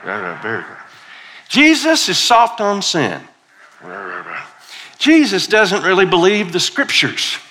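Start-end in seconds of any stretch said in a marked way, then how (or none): 1.5-3.2 much higher and louder, indignant; hammed-up scandalized accusation; accusing Pharisee. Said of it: "are mumbling and grumbling". 3.8-4.4 grumbling mumble. Shown as a demonstration. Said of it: "do a little mumbling". 5.0-7.4 much higher and louder, indignant; hammed-up scandalized accusation; accusing Pharisee. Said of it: "are mumbling and grumbling".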